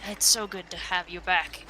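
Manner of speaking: a high, loud, delighted cry of her name, settling as he goes on; delighted welcome. Acted. Old halfling patriarch welcoming Decker home, delighted. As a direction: greet her like a long-lost grandchild.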